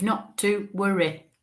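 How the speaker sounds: slow, separated words of a relayed message; deliberate, spaced-out delivery; broken down slowly. Retold or imitated. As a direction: relay it word by word. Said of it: "she said it in a w-, that way".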